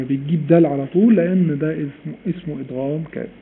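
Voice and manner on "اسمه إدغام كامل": usual speaking voice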